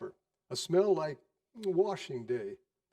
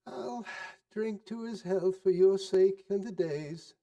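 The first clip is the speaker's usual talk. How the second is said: grudging wife; 4 semitones higher than usual. Acted. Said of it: "said Missus Cratchit".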